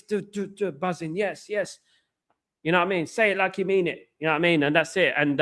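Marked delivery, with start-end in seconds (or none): 0.0-1.8 high, excitable chant of yes; buzzing hype voice; hyped-up buzzing. Shown as a demonstration. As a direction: pump yourself up, bouncing high. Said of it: "I have to be like this".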